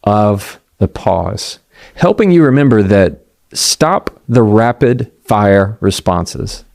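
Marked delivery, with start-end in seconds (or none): 0.0-1.6 slow pause. Shown as a demonstration. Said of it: "remembering your breath".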